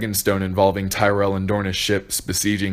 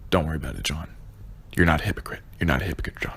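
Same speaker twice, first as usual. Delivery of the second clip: mock reassurance; 4 semitones lower, 5 dB quieter, much faster than usual. Real, not acted. Sarcastic mock reassurance to Jon.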